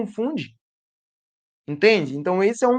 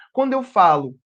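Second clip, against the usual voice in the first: ordinary talk, nothing marked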